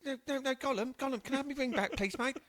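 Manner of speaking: Gollum impression. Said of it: "that was my Gollum impression".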